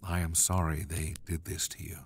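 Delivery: hushed, whispered sympathy. Acted. David consoles his humiliated servants in a whisper. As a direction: whisper it close to their faces.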